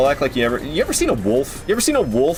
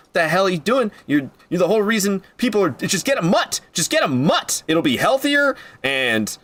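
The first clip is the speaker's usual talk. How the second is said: ranting; 6 semitones higher than usual. Real, not acted. Ranting at dog buyers.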